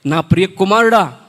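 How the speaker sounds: God's voice addressing his son, slow and weighty. Shown as a demonstration. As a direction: speak as God calling a beloved son, slowly and grandly. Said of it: "first time నేను వేసే voice".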